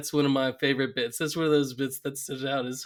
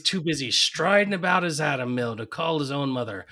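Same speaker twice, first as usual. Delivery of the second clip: lightly voiced indignant old mother; an ancient mother fuming about her son; old woman's scolding. Burns's mother scolds her absent son, lightly voiced old woman. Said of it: "a hundred and twenty-four-year-old woman".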